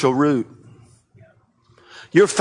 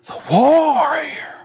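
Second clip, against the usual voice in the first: breathy dramatic whisper, drawn out; slow whispered title; 8 semitones higher, much slower than usual. Acted. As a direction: hush it like a secret battle cry.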